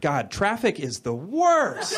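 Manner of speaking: slow, offhand grumble; lightly voiced clueless man griping; oblivious man. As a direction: complain like nothing is wrong. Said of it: "my impression of a man".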